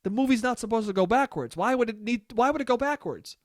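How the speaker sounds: mildly annoyed questioning; baffled, mild annoyance, not really angry; a little annoyed. Retold or imitated. Son asking mom what's going on, a little annoyed. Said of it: "a little bit annoyed, but not that annoyed".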